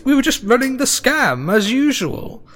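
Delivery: high, protesting halfling father; high start, settling into casual explanation; unrepentant halfling scammer. Acted.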